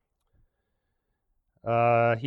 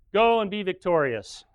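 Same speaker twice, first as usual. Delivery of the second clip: sarcastic; 4 semitones higher, 4 dB louder than usual. Retold or imitated. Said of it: "he must have said it in some kind of sarcastic tone".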